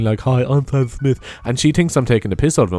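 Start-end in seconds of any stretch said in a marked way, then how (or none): 0.2-1.2 impression of a singer. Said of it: "I do an impression of him".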